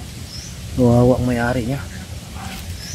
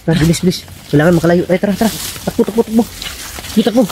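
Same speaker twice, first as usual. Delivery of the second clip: higher, urgent while running; 6 semitones higher, faster than usual. Real, not acted. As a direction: run and shout to hurry. Fleeing the cult camp.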